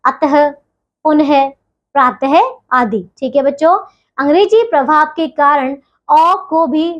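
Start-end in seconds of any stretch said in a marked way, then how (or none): 0.0-2.4 अतः, पुनः, प्रातः each closed with a breath of "h"; visarga as h. Shown as a demonstration. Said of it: "इसका उच्चारण ह की तरह होता है".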